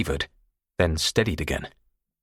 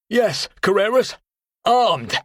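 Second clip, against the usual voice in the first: high, loud, dry-mouthed croak; 6 dB louder, slower than usual. Acted. Carter bluffing Tony with a dry croak. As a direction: force words out of a parched throat. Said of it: "A buzzard with tonsillitis had nothing on my croak".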